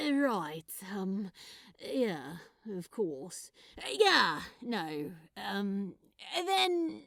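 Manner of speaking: halting, voice catching on the words; covering disappointment with ums; sad, awkward goodbye; crestfallen Crowley. Acted. Crowley deflated after refusal.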